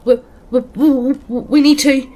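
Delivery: high, loud terrified stammer; panicked, starting to cry. A narrator's reading. Dan warning friends at the top of the stairs, panicked. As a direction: stumble over the words in breathless panic. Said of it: "He's hyperventilating and starting to cry".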